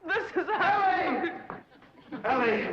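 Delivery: high, loud, laughing cry of the name; love-struck shout; ecstatic lover's cry. Acted. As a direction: burst in swooning with joy. Charmed man bursts in.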